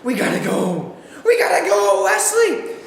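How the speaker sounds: mild mock scream. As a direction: hurry your friend out. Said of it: "I scream".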